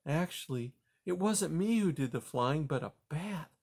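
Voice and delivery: puzzled but kind; gentle grandma mouse. Acted. Grandma Poppy.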